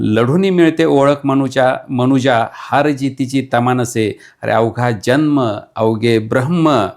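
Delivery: fiery declaimed verse, building to a call to fight; rally the listener to fight, line by line; rousing poem recital. Acted. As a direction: poet declaiming a battle poem to the audience. Repeats closing stanza.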